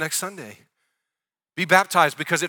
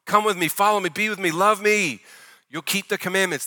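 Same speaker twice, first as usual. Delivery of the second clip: earnest loving plea, pitched higher; heartfelt invitation, raised pitch, easing off at the end; Jesus's inviting tone; 5 semitones higher than usual. Retold or imitated. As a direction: coax them to come along. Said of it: "So that's his tone".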